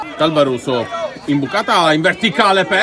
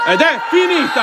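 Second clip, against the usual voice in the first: final whistle shout; 8 semitones higher, 4 dB louder than usual. Real, not acted.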